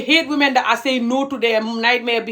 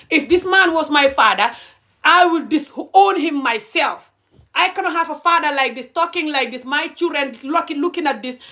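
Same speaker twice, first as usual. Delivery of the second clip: higher-pitched, real outraged declaration; indignant rant; 5 semitones higher than usual. Real, not acted. Speaker imagines this man as their own father, indignant. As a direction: disown him with rising indignation. Ranting about disowning such a father.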